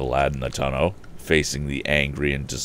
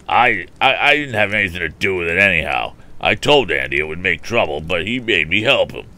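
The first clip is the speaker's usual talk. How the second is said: frightened; 3 semitones higher, 5 dB louder than usual. A narrator's reading. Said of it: "beginning to be frightened".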